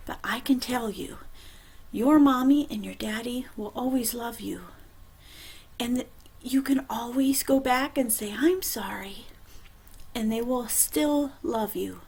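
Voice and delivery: hushed, soft and gentle; tender reassurance. Acted. Storyteller reassures the boys and girls, tenderly hushed. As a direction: tell the kids softly they are loved. Comforting children at story end.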